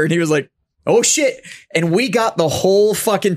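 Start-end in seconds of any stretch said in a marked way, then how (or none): 0.9-1.4 high, loud mock Boston cabbie; a Boston cabbie's excited outburst; imitating a local Boston driver's excitement. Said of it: "but we got a local".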